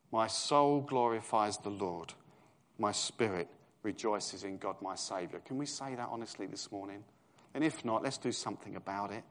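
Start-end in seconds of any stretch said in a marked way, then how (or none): 0.1-5.4 slow reflective repeat. Shown as a demonstration. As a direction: let the words sink in. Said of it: "repeats slowly after reading".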